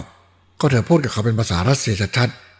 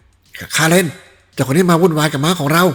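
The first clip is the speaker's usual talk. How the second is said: noisy shout; 7 semitones higher, 4 dB louder, slower than usual. Acted. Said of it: "เสียงเอะอะโวยวาย".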